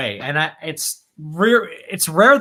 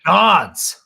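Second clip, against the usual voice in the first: slow, grand movie recitation; dramatic, drawn-out epic quote; film narrator quote; much slower than usual. Acted. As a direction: intone each phrase with long pauses. Acting out Mako's film line.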